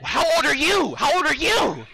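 pressing, high-pitched interrogation; demanding challenge. Real, not acted. Player confronting another about their age, demanding. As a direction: push the question, pitch jumping up.

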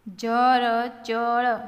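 slow, letter by letter; sounded out. Shown as a demonstration. Teacher modelling reading for learners, sounded out. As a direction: stretch જરચર into four open syllables.

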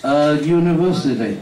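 A university slowly, with a YU sound; slow model phrase. Shown as a demonstration. Teacher showing how to say A university. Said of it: "thì nói sao".

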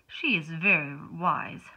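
lightly voiced starfish, slow and knowing.

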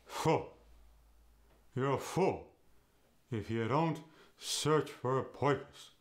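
"fool" with the vowel shifted toward uh; a Yiddish lecture about purpose; Yiddish accent. Shown as a demonstration. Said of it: "Fool goes to".

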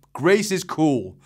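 high, loud, slow pronouncement; declaring. Acted. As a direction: declare it with a boy's conviction. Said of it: "declared Eric".

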